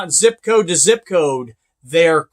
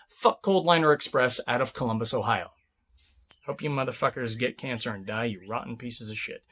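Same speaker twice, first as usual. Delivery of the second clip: a much softer, lower muttered curse; low bitter curse; 8 semitones lower, 10 dB quieter than usual. Real, not acted. Cursing the company that stole his paycheck: low bitter curse. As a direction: spit the curse under your breath.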